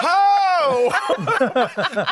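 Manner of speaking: very high, shocked squeak; retold startled yelp. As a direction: yelp it in alarm. Startled at men undressing.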